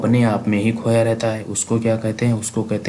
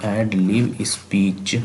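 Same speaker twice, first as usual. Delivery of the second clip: whispered; much slower than usual. Shown as a demonstration. Teacher whispering the term to his students. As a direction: whisper एड lib speech slowly, no voice at all.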